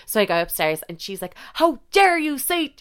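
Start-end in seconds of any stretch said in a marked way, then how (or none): 1.5-2.8 put-on high, indignant country accent; drawn-out, high-pitched country-accent outrage; mock country accent. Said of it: "we're giving her one".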